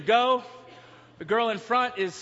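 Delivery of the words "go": loud, mock group scream; retold screaming. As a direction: shout it like people stuck behind in the tunnel. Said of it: "are screaming".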